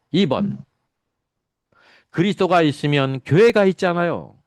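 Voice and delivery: Bible-study preaching. Acted. 교회 성경공부를 가르치는 목사, 힘주어 설교하는 어조. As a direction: preach the lesson to the congregation, stressing each point.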